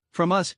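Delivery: "From us" with "us" pushed; emphasis on us. A narrator's reading. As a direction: lean hard on "us". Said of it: "putting emphasis on the word".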